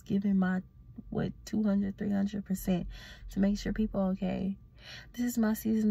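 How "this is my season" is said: hushed dramatic whisper. Real, not acted. Telling viewers her new motto, hushed whisper. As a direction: breathe it out like a secret vow.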